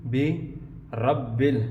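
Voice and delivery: برب said slowly as a mistaken reading, marked as not correct; wrong reading. Shown as a demonstration. Teacher demonstrates the mistake before correcting it to students. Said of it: "برب نہیں ہے یہ".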